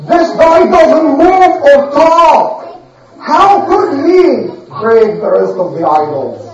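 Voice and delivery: mocking king. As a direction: scoff like a proud king who feels insulted. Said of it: "And he said".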